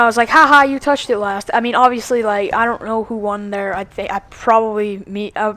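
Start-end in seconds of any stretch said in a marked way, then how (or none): 0.3-1.5 higher, louder playful gloat; joking taunt. Retold or imitated. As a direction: tease a friend for losing, just kidding. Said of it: "I was just joking around".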